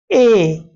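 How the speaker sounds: ए drawn out slowly; vowel sound demo. Shown as a demonstration. Teacher demonstrating the middle vowel to students. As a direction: stretch the ए sound for the class. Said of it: "दरमियान में आवाज है".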